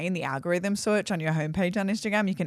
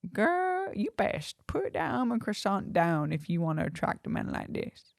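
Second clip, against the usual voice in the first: mildly mock-scolding herself; sassy inner voice; 4 dB quieter than usual. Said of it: "What is that voice?".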